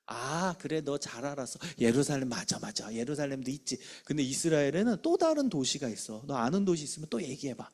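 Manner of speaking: softly coaxing another try; patient, acted reassurance to a pupil; encouraging teacher. Shown as a demonstration. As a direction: gently accept the answer and nudge onward. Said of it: "기회를 또 주세요".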